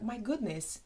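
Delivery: rising mock-shocked question; shocked disbelief. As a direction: sound scandalised by the show. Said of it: "You're like".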